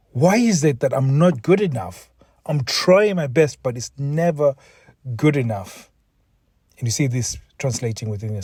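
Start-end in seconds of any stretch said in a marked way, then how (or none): 0.1-5.9 acted exasperated self-doubt, pitched higher; raised pitch, imitating someone at wits' end; going crazy. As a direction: voice a man's frustrated inner plea. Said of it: "going crazy thinking".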